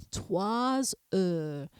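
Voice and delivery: trois heures linked with a buzzing z sound; trois heures with liaison. Shown as a demonstration. Teacher demonstrating the liaison in trois heures. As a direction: join trois heures, the S voiced like z. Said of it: "I do pronounce that S".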